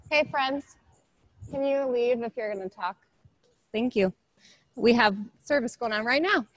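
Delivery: a touch of teacher telling chatterers off; politely firm classroom reminder. Real, not acted. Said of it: "put on my teacher voice".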